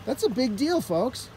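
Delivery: playful salesman hype; mock passion. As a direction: sell it like an eager car dealer. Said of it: "Do I sound passionate enough?".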